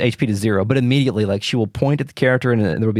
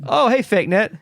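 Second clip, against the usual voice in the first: silly high voice; 10 semitones higher than usual. Pretend. Greeting the GF in a voice.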